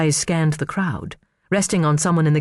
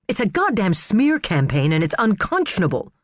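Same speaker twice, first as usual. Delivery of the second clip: snapped; 5 semitones higher than usual. Acted. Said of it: "she snapped".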